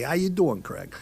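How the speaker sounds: casual Philly-style greeting, lightly imitated; Philly accent. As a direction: toss off "How you doing" in a mock Philly accent. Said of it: "The, the Philly way, the accent there".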